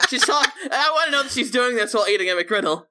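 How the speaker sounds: talking around a bite of food; words muffled by chewing; mouth full. Real, not acted. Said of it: "talking with her mouth full".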